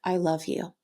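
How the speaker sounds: mean it, from the heart; loving tone. Shown as a demonstration. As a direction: say I love you to someone you love, tender. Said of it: "act like I'm speaking to someone I love".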